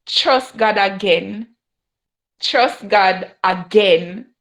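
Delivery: slow, deliberate repetition; each word laid down slowly; slow repeated advice. Retold or imitated. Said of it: "That's what she said".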